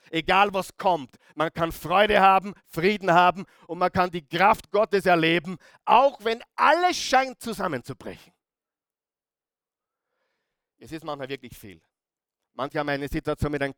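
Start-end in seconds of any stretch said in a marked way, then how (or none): 0.1-8.3 emphatic preaching. Real, not acted. Preacher building up an encouragement.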